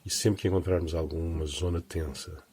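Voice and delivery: unhurried body-scan guidance with long pauses; guided meditation. Acted. Teacher leading listeners through relaxing the body, guided meditation voice. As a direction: guide them gently down the body, phrase by phrase.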